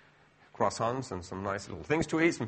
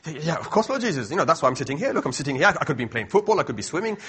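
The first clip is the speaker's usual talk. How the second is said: eager protesting; 2 semitones higher, 5 dB louder, faster than usual. Acted. Acting out eager answer to Jesus.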